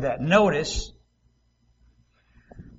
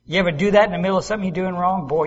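ordinary talk, nothing marked

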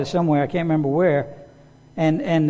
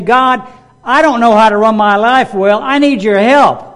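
humble prayer; 4 semitones higher, 7 dB louder than usual. Retold or imitated. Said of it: "humble enough to say".

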